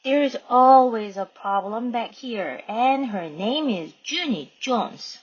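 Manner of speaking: lively read-aloud with character voices; reading to children. Acted. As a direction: read it like a kids' storybook. Reads Junie B aloud. (아이들에게 읽어주는 목소리)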